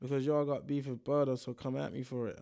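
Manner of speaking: put-on a light American accent, quoting the fighter's post. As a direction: read his words in a mild American accent. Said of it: "I'm doing that accent still".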